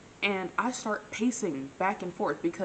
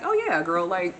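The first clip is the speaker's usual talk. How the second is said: imitating a friend being casual; mock nonchalance; 4 dB louder than usual. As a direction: toss it off as a mock shrug. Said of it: "you calm, nonchalant, casual about it".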